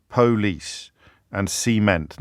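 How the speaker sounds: "police" and "cement" slowly, stressed on PO and CE; first-syllable stress. Shown as a demonstration. Host reading out examples, "police" and "cement" stressed at the front. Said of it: "syllable stress in the first syllable".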